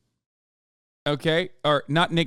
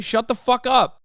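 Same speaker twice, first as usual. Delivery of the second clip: annoyed outburst; 9 semitones higher, 4 dB louder than usual. Real, not acted. Snapping at chat critics.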